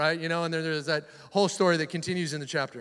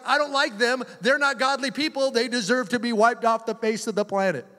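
Jonah, angry; 3 semitones higher than usual. Retold or imitated. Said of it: "he becomes angry".

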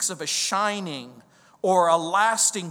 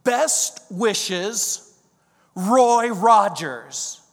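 reading the autograph; 5 dB louder, much slower than usual. Retold or imitated. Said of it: "he signed it".

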